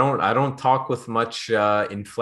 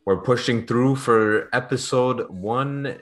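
half asleep, low energy; sleepy, drowsy delivery; nodding off; 3 semitones lower than usual. Real, not acted. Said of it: "uh, I'm tired today".

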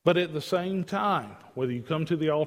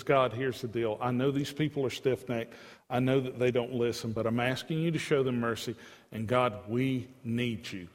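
understated, earnest plea; restrained pleading, sinking a little lower; 3 semitones lower than usual. Acted. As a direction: plead gently, slowing right down at the end. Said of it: "Moses begins to plead with God".

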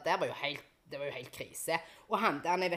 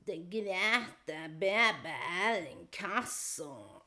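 slow, dreary debt collector phone greeting; mocking a bored debt collector answering the phone; depressing monotone; much slower than usual. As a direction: drag it out like a joyless debt collector. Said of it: "du blir jo faen depressiv av mindre".

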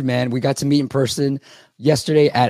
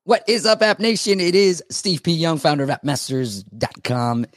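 excited; 6 semitones higher than usual. Acted. Hyped podcast show opener.

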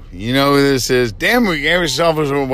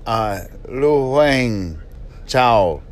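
put-on slow, halting Chinese-accented English; slower than usual. Host posing as Lu Wang Chao known as Mary, mock Chinese accent. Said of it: "now I messed up the accent".

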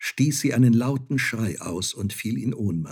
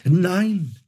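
higher, louder desperate cry; pleading cry; 9 semitones higher, 5 dB louder than usual. Acted. Mother begging her son on her knees, crying out. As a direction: cry out to win him back. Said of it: "rief sie".

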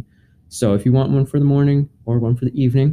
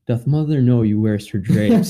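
put-on old english. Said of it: "the edition that I have is in Old English".

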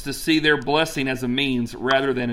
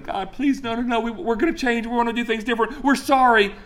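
mock wailing Ninevites; 7 semitones higher than usual. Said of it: "Start wailing".

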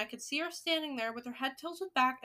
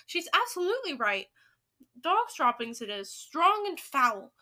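louder, emphatic confirmation; excited cry; 3 semitones higher, 6 dB louder than usual. Acted. Another witch confirming the smell, crying out. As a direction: declare it loudly, stretching the last words. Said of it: "cried another voice".

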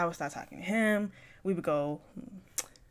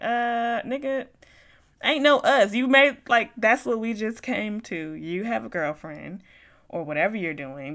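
much louder, heated telling-off; angry telling-off; 2 semitones higher, 6 dB louder than usual. Retold or imitated. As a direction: shut him down hard, no room to argue. Retold blow-up at him.

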